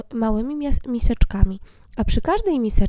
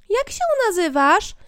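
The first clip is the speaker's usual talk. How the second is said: dwarf voice; 9 semitones higher than usual. Acted. Dwarves ask Snow White.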